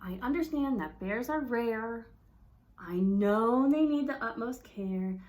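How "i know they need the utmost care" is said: exasperated. Shown as a demonstration. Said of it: "How would you tell your mom".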